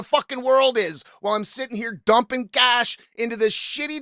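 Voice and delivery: retold stern rant with mild heat; sternly shutting down the conversation; a bit stern. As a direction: lay down the law, hitting the swear words. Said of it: "I got a bit stern with him".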